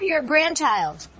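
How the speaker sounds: high, drawn-out imitation of a little girl; slow and high, faking the grandchild; counterfeit girl's voice. A narrator's reading. Wolf pretending to be the grandchild, slow counterfeit high voice. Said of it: "counterfeiting her voice".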